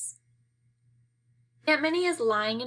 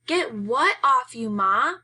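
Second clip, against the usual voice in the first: louder, slowed, urgent; alarmed; 3 semitones higher, 5 dB louder, slower than usual. Acted. Son startled by mother.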